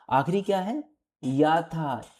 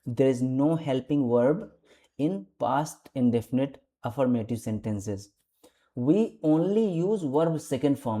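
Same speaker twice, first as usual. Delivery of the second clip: very slow, deliberate rule reading; teacher reading the grammar rule aloud; slow dictation; much slower than usual. Shown as a demonstration. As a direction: drag each word out for the class.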